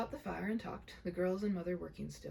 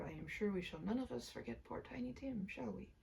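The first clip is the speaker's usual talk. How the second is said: hushed sorrow; 2 semitones higher, 4 dB quieter than usual. Acted. Bob remembering dead Tiny Tim.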